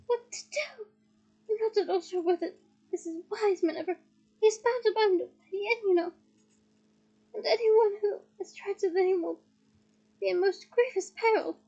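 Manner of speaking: a hint of flustered old professor; lightly voiced, fretful; rumbling Slughorn. Slughorn frets to McGonagall, mildly flustered. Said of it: "Slughorn rumbled into speech".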